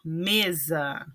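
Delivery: mesa slowly, weight on me; stress on first syllable. Shown as a demonstration. Teacher presenting an example word, mesa stressed on me. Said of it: "o me é a sílaba tônica".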